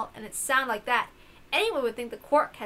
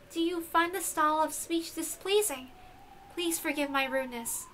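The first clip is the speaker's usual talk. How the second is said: lightly formal, softer and higher; stiff formal servant; 3 semitones higher, 6 dB quieter than usual. Acted. Beato to her father Balor, lightly stiff and formal. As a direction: speak like a dutiful servant. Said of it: "it's not like you".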